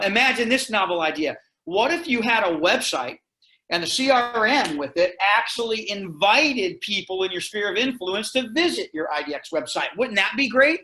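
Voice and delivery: mock-wonder pitch of a novel idea; emphatic, lightly sarcastic selling. Real, not acted. Presenter teasing realtors with an obvious idea, sarcastically. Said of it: "I'm saying that kind of sarcastically".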